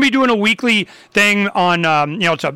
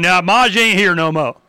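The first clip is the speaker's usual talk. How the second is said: mocking smug opponents; 2 semitones lower than usual. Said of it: "fat and stupid, going".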